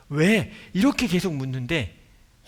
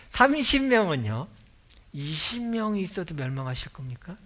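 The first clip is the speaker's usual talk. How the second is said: pushy bargaining; 3 semitones higher than usual. Acted. Abraham bargaining with God.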